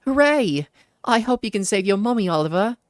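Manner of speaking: high, bright little fairy cheering. Acted. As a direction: squeak it out like an excited tiny fairy. Fairy P voiced by player.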